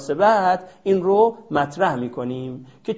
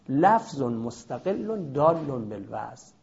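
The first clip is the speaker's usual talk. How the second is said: slow recitation; 3 semitones lower, 5 dB quieter than usual. Shown as a demonstration. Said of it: "کلمه لفظ مستقلی است که".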